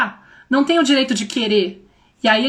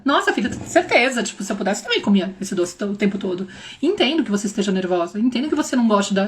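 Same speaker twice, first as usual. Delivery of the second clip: much softer, gentle understanding; calm her down softly; soothing empathy; 3 semitones lower, 4 dB quieter than usual. Retold or imitated. Mother gently comforting her daughter about the sweet.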